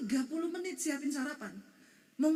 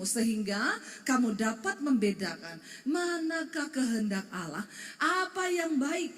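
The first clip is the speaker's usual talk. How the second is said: scripture reading; 4 dB louder than usual. Acted. Pastor leading the congregation in reading Romans, solemn. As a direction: read the verse aloud together, deliberately. Reads scripture aloud together.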